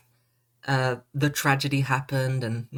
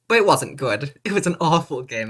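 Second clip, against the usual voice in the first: louder blunt verdict; 5 dB louder than usual. Pretend. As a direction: punch "awful" louder. Reversing mock praise.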